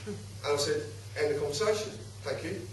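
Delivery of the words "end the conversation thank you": soft, low, courteous brush-off; polite dismissal. Retold or imitated. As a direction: close the conversation politely and quietly. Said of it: "And I was very polite".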